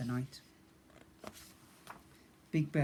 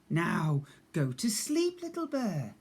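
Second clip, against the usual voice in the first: soothing; 3 semitones higher, slower than usual. Acted. Slow bedtime line.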